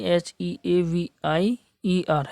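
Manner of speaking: letters एच ई ए वी आई ई आर spelled slowly one by one; slow spelling. Shown as a demonstration. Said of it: "तो सबसे पहले आई करेंगे". (धीमी वर्तनी)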